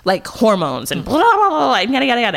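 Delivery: retelling a rant at a friend, pitch soaring; mock indignant yell. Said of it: "I, like, yelled at Amy".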